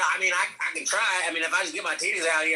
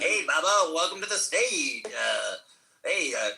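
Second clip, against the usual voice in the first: a bit higher, showman host voice; lightly raised Andrew voice; Andrew impression; 4 semitones higher than usual. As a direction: welcome him to the stage like a hype host. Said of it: "can you do an Andrew?".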